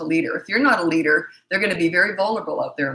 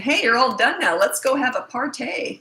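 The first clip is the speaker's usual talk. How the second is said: mock celebration; 7 semitones higher than usual. Shown as a demonstration. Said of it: "But you're not saying".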